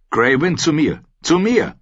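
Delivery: frantic shouting. A narrator's reading. Rob yelling at his direwolf to come back. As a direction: call the wolf back in panic, pitch climbing. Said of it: "Robs Rufe".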